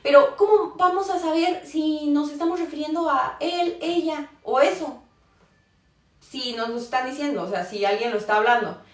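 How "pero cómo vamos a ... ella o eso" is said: lightly voiced learner's question, pitched up; mock a student's puzzled objection, higher; imagined puzzled students. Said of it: "Y me dicen". (imitando levemente la duda de un alumno, más agudo)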